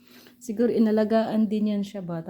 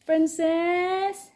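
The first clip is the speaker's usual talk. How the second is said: calling a pet; 7 semitones higher than usual. Real, not acted.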